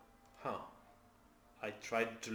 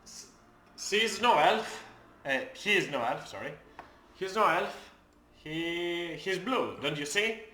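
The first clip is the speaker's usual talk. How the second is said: higher, louder, slow protest; Madeline insisting; 6 semitones higher, 5 dB louder, slower than usual. Acted. GM voicing Madeline defending her friend, insistent. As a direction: talk the ogre out of it in a rush. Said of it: "nearby Talus and says".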